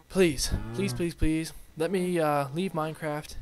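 loud, insistent begging; mock pleading. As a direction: beg the goddess out loud. Pleading with the lake goddess.

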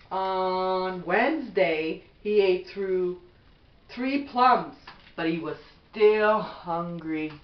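gentle, even bedtime storybook read; reading to children. Acted. Mother reading a bedtime book to her son, gentle storybook voice.

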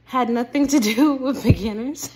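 panting after a workout; breathless, winded talk; out of breath. Real, not acted. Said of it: "but I am out of breath".

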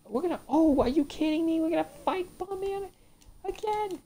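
loud exasperated cry; outburst. Real, not acted. Gamer yelling at facing Bomb Man again. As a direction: shout in disbelief.

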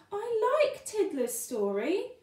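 high little fish voice; Johnny Dory. Acted. Little fish defending Tiddler's story, high. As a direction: pipe it up high like a small fan.

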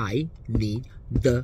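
"I need the loo" word by word, spaced out; slow demo. Shown as a demonstration. Teaching the British phrase, word by word. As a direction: spell out the phrase slowly for learners. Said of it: "เราจะได้ยินคนบอกบ่อยมากว่า".

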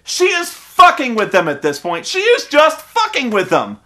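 mild mock yell, rising in pitch; retold yell. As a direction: re-enact an indignant heckle. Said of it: "I yelled in the theater".

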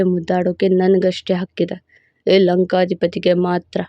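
a proud, possessive lover laying claim; possessive hero voice. Acted. Narrator voices hero Yuvaraj.

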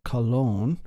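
"kalon" stressed on the last syllable, -LON; final-syllable stress. Shown as a demonstration. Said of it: "accent on its final syllable".

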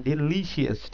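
डिलीशियस with the second syllable LI stressed; teacher modelling second-syllable stress. Shown as a demonstration. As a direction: say डिलीशियस as di-LI-shəs. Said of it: "second पे बन रहा है".

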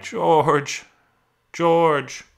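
high, loud call for help; crying out. A narrator's reading. Lenny calls George to save him, crying out. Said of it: "And he cried".

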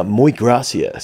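slow, drawn-out "muy gracias"; clumsy tourist attempting Spanish; dickhead tourist Spanish. Tourist trying their language abroad, dickhead Spanish. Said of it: "you sound like such a dickhead".

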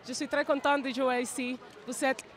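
French spoken with a Spanish accent; non-native French, Latin American accent; foreign accent in French. Real, not acted. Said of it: "je suis désolé pour mon français".

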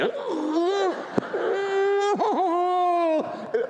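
long high-pitched laughing wail; imitated helpless cry of overwhelming joy; ecstatic wail. Dying priest overcome with joy while others mourn, ecstatic wail. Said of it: "And I'm, like, in ecstasy".

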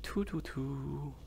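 breathy whispered counting, slowed; barely voiced, slow and soft. Real, not acted. Gamer whispering a little count to himself.

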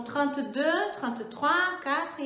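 "trente-deux", "trente-trois" in French; French thirties demo. Shown as a demonstration. Teacher models the thirties in French. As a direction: count on in the thirties. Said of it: "você vai fazer".

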